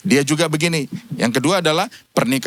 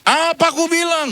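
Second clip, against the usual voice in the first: smug told-you-so; 12 semitones higher than usual. Retold or imitated. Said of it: "Saya nggak bilang ini".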